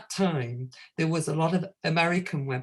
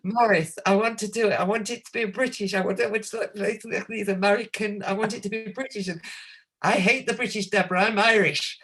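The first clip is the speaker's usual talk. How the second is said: mock rant; 4 semitones higher than usual. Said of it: "Maurice ranting down the phone".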